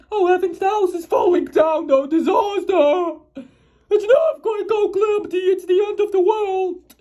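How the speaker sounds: rising, frantic wail of disaster; panicky cry. Acted. Timid man cries out at the noise, panicky and frantic. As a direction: wail that the world is ending.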